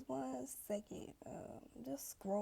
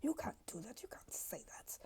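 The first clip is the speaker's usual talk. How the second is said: shocked gossip; 4 dB louder than usual. Retold or imitated. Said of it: "everybody's like".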